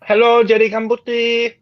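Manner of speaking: high put-on greeting voice; Junior impression. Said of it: "I saw our friend Junior today".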